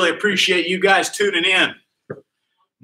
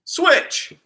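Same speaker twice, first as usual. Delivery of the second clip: box over head; 3 semitones higher than usual. Real, not acted. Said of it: "I always wonder when I got this box on if you can hear me".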